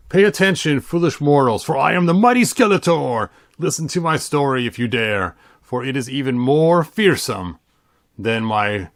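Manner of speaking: lightly voiced villain reading; a hint of a menacing Skeletor narration. Reading the Skeletor book to viewers, mildly villainous.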